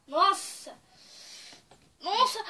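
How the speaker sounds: from startled to alarmed; rising exclamations. Real, not acted. Toothpaste stinging face.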